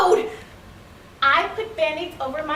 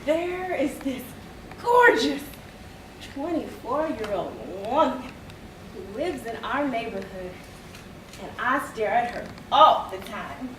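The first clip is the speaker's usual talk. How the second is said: put-on smitten teen. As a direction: dwell dreamily on the woman, hushed. Smitten teen describes gorgeous woman.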